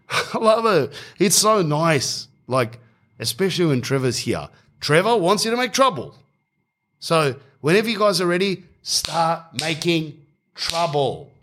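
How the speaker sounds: sing-song, creepy-sweet invitation to cause trouble; creepy host, laughing. Retold or imitated. Host with a stick egging the guests on, high and sugary. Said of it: "He goes".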